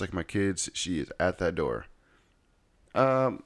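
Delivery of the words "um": put-on high-pitched mother-in-law with an Asian accent; imitated Asian accent. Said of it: "that's my best Asian accent".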